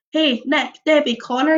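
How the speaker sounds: calling out. Acted. You calling up the stairs for the friends, a mild call. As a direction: call up the stairs to find them. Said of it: "you call out".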